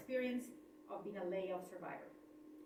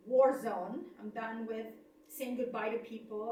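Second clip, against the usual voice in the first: fed-up outburst; 4 dB louder than usual. Retold or imitated. Fed up, begging to leave.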